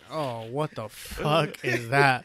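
mock spooked.

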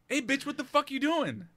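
mock-indignant, amused question; retold challenge. Retold challenge to friend peeing.

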